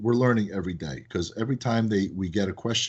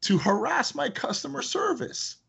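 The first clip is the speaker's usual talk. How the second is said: slow, high teasing reproach; mock scolding; slower than usual. Owner scolding a customer who harassed support, slow playful reproach. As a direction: drag it out like a playful telling-off. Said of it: "I said".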